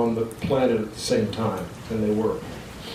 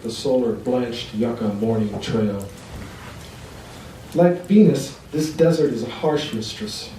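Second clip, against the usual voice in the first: poem reading. Acted. Reads poem to audience.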